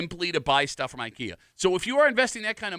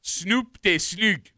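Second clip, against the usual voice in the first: Swedish-ish gibberish; much slower than usual. Pretend. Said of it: "teaching you Swedish slang".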